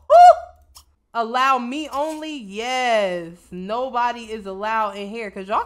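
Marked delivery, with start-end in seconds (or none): none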